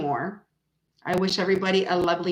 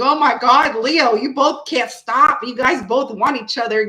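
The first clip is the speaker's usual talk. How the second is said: imitating excited Archer; 3 semitones higher, 5 dB louder than usual. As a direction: tease both Leos, slowing down. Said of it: "and he was like".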